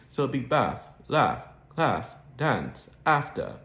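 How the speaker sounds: bath, laugh, class with a vowel between ah and a; Mid-Atlantic intermediate A. Shown as a demonstration. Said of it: "the vowel sound is a bit in between".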